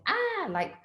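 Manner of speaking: high, hammed-up outburst; acting out stage directions on a self-tape, high and hammed-up; mock scene acting. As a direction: toss off a quick mock action line. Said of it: "you're going".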